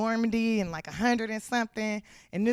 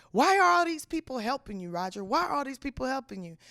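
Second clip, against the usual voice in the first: lightly voiced exasperated detective; movie detective; 3 semitones higher than usual. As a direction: question him like a cartoon-film detective, voice slightly raised. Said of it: "and the detective's like".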